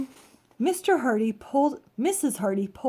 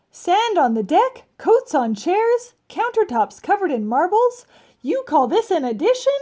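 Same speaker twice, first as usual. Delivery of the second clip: exasperated rant; 9 semitones higher, 8 dB louder than usual. Acted. Mr Hardy rants at Amelia Bedelia over his ruined house, high and loud. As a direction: spell out each disaster in loud disbelief.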